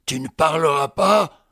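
plus fort, menaçant, à bout de patience; répète la question en haussant le ton; exaspéré. Acted. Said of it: "Exaspéré". (question répétée, exaspérée)

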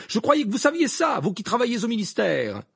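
high, sharp cutting remark; angry. A narrator's reading. Mrs Weasley scolding Amos Diggory, angry. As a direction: cut him down to size. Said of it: "dit Madame Wesley avec colère".

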